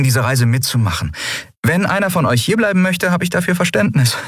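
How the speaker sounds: earnest character voice, high throughout; captain's earnest speech. Acted.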